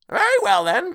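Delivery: high, loud charwoman exclamation; crying out. A narrator's reading. Charwoman settling the question with the others, crying out. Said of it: "cried the woman".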